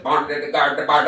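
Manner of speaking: lightly mocking nanny attempt; nanny copying the noise. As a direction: badly imitate someone else's trick. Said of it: "she's trying to do my shit".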